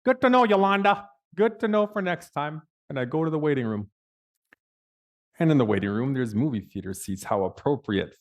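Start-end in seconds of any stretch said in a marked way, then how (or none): 0.0-2.6 high, mock-cheery reply; pointed, high-pitched fake gratitude; sarcastic thanks. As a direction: echo her sweetness back sarcastically.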